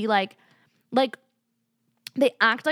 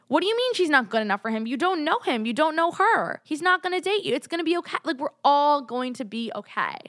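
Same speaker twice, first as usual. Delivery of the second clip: exasperated rant; 5 semitones higher than usual. Real, not acted. To fans judging his girlfriends: exasperated, rising higher. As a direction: pitch climbing higher with each line, incredulous. Ranting at fans about a singer.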